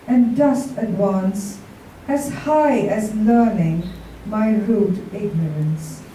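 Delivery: slow, reverent sonnet reading; poem recital. Acted. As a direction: read it as homage to a muse. Reads sonnet for the queen.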